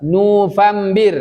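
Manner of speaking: November drawn out very slowly as nufambi; slow Arabic drill. Shown as a demonstration. Teacher drills the month slowly for pupils. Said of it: "istami' wa raddid".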